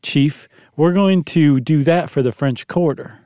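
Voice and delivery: put-on light New Orleans accent; a hint of a New Orleans drawl. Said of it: "That was my New Orleans accent".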